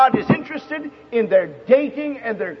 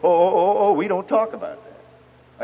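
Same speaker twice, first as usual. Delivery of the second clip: mildly flustered, falling refusal; retold girl backing away from the subject, understated; frightened reply. Girl avoiding a question about her boyfriend, mildly frightened. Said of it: "very serious, frightened look".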